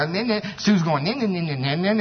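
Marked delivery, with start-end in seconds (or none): 1.0-2.0 mocking nin nin nin chant. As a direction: taunt with a childish nin-nin. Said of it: "that's the way it sounds".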